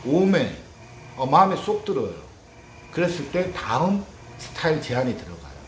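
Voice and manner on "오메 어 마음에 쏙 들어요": delighted customer. Retold or imitated. Customer delighted by new haircut.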